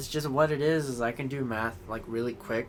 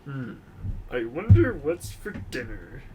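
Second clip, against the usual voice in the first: cartoon quote. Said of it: "Nintendo game cartoons".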